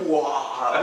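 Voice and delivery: loud mock-frightened "wah"; terrified wail. Terrified student hearing his teacher laugh, loud mock wail. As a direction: blurt a hammed-up wail. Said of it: "I'm just terrified".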